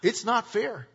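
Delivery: lightly mocked whiner. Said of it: "a whiner's favorite phrase is".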